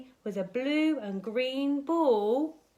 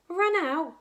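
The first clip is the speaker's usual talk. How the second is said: amused disbelief; 8 semitones higher, 6 dB louder than usual. Acted. Monster laughs at the worry.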